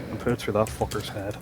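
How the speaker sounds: quiet threat from the violent half; violent Northern Ireland. Acted. Comparing the two Irelands, as the violent northern half. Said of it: "somebody with a violent split personality".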